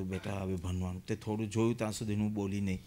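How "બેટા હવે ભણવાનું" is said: put-on soft, low coaxing to a child; loving. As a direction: tell the child gently, with love. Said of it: "પ્રેમથી કહો".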